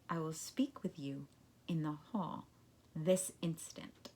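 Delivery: cold, unvoiced whispered threat; whispering. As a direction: hiss it quietly, menacing. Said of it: "said very quietly".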